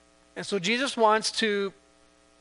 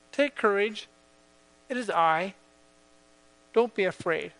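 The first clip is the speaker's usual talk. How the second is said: gentle reassurance. Acted. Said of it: "hear the words of Jesus".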